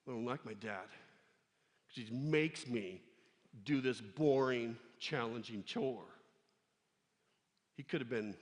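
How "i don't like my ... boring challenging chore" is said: sulky attitude. Pretend. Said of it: "David could have had an attitude with his dad".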